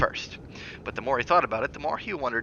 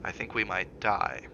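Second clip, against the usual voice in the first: slow, quiet and deliberate; soft and measured; slower than usual. Acted. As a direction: say it gently, weighing each word. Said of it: "his voice soft and measured".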